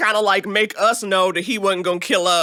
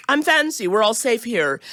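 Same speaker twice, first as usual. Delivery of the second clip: mock harmless and fancy; code switching; 3 semitones higher than usual. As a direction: reassure in a polite code-switched voice. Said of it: "code switching, obviously being like".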